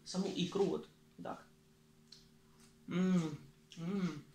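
humming while chewing food; talking after swallowing bite; mouth full, chewing. Real, not acted. Seen 0: Spoonful into mouth at -3; closed-lip chewing face until ~2s.

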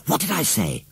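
first take, still held back; triumphant. A narrator's reading. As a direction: crow over her brother. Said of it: "she shouted".

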